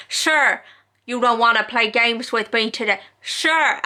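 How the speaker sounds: lightly mimicked TV judge, not quite her accent; Judge Judy. Vlogger retrying the judge's put-down of liars, mock sceptical. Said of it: "but she's like".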